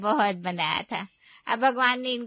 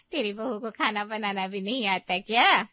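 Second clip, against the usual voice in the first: ordinary talk, nothing marked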